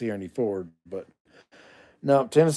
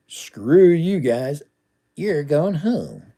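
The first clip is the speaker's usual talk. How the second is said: Cartman; 3 semitones higher, 3 dB louder, slower than usual. Retold or imitated. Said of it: "That was a Cartman reference".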